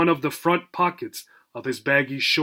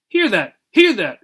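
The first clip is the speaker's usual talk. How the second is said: parrot echo; 5 semitones higher, 5 dB louder than usual. Acted. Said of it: "replied Mister Smithers".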